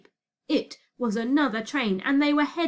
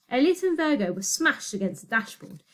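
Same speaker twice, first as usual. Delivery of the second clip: ordinary delivery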